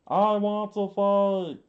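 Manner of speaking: put-on high defiant boy, restarted take; loud high boy voice. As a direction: insist like a stubborn boy begging to fight. Boy Kappa pleads to fight.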